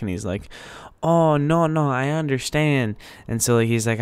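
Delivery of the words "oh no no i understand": imitated Hispanic accent, higher pitch; put-on Hispanic accent for a retold reply; thick Hispanic accent. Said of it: "really thick Hispanic accent".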